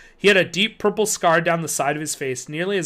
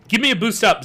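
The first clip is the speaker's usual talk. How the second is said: eager, a bit louder; 5 semitones higher, 6 dB louder than usual. A narrator's reading. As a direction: urge eagerly. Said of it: "Zeke urged eagerly".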